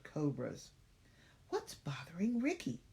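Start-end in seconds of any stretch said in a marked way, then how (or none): 1.5-2.8 high whispered thought. Acted. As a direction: whisper it to herself. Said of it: "she thought".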